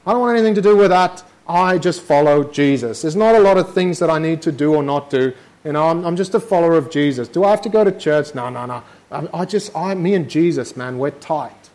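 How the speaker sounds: breezy, quick, dismissive parody; lightly voiced careless believer; a casual shrug of a voice; mocking liberal Christian. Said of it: "just do away with the law and say".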